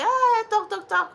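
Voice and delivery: high, loud mocking singsong; mocking chatter. Mocking the trolls' endless talk, high and loud.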